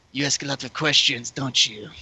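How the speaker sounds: lightly put-on French accent; a deadpan French accent, eyes locked. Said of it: "in a French accent".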